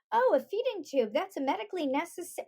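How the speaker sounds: high-pitched, brisk little explainer; lightly hammed-up precocious kid; mock knowing child. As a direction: rattle it off like a know-it-all child. Acting out an implausibly knowing child.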